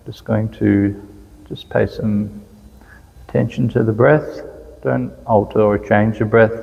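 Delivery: calm, unhurried meditation guidance with long pauses; even, settled voice, leaving space between instructions; guided meditation. Real, not acted. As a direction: gently lead listeners into following the breath. Leads a guided breathing meditation.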